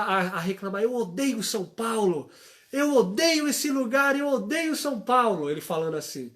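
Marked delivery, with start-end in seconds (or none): 0.8-5.5 put-on child complaining. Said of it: "começou a reclamar".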